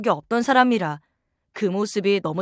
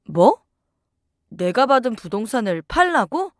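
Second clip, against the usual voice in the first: shocked what. Acted. Wife shocked by sale request.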